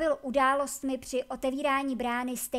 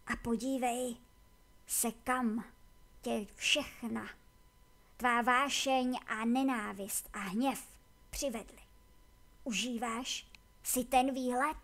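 lightly voiced tired old warrior, slow reproach; measured, heavy words with pauses; a hint of weary bitterness, slow; weary Akama, reproachful.

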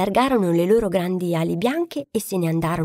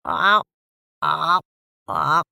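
crow cawing; 3 semitones lower, much slower than usual. A narrator's reading. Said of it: "gridava per il freddo".

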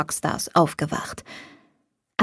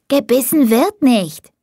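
put-on high, slow small child; a small boy's high, careful voice; little boy's voice; 6 semitones higher, 4 dB louder than usual. A narrator's reading. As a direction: speak like a tiny earnest boy. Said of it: "erklärte eine kleine Stimme".

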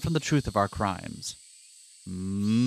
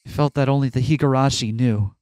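plain. Acted. Reads game narration aloud.

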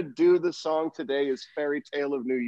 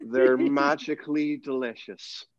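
very slow, dreamy Irish accent; drugged leprechaun drifting through poetic Irish; languid poetic Irish; slower than usual. Shown as a demonstration. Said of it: "languid, poetic Irish accent".

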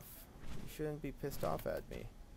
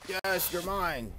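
slow, higher, louder cheer; 1 triumphant; 7 semitones higher, 7 dB louder, slower than usual. Real, not acted. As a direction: savor the win as you claim it. Triumph as the tame completes.

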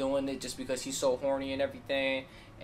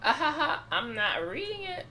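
laughing; 13 semitones higher than usual. Real, not acted. Laughing refusal.

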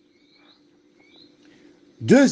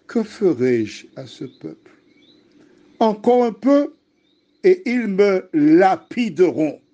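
alarmed plea; 4 semitones higher than usual. Acted. Moses cries out to God, read aloud.

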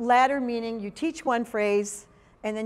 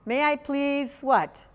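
slow prompting question; 4 semitones higher, slower than usual. Shown as a demonstration. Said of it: "What might that be?".

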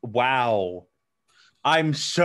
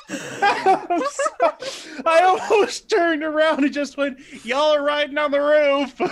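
much higher, words squeezed through laughter; laughing while talking; 14 semitones higher, 4 dB louder than usual. Real, not acted. Player cracking up at own joke, laughing words. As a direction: talk through giggles.

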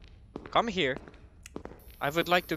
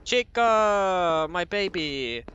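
drawn-out, higher cry of mock affection; mock adoring call; 5 semitones higher, 4 dB louder, much slower than usual. Player finally spots Chica, mock-adoring call. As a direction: coo it out to a darling, starting high and loud. Gushing at Chica once she appears.

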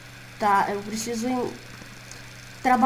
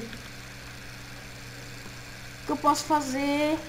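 slow, scared whisper; 4 semitones higher, 7 dB quieter, much slower than usual. Acted. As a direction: breathe it out in fear. Com medo, sussurra. (sussurro com medo)

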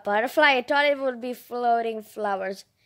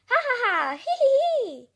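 mock laughter; 10 semitones higher, 3 dB louder than usual. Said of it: "talking and laughing".

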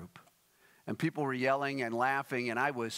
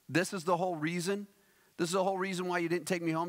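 rapid, higher-pitched incredulous quote; mock indignation; 4 semitones higher, much faster than usual. Mitch to preacher at the church, mock indignant. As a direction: retell it as a rushed, put-out question.

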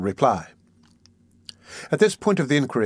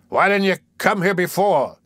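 high-pitched, demanding question; accusing; 7 semitones higher, 3 dB louder than usual. A narrator's reading. Magistrate questioning the late witness, accusing. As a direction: challenge him sharply.

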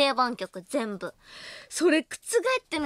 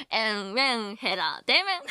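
laughing; 2 semitones lower than usual. Real, not acted. Joking catchphrase between laughs.

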